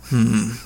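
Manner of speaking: short, loud villain grunt; closed-mouth grunt of acknowledgment; grunted hmm. A narrator's reading. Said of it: "he grunted".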